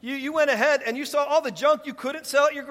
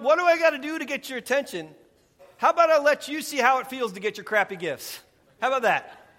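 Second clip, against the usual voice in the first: mock exasperation; 2 semitones higher, 4 dB louder than usual. Preacher voices God fed up with his people, mock exasperation. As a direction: voice God as fed up, pushing louder.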